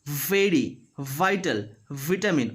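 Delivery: VERY, VITAL, VITAMIN with a held buzzing V; clear V. Shown as a demonstration. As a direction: teeth on lip for each V in VERY, VITAL, VITAMIN. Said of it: "in case of V".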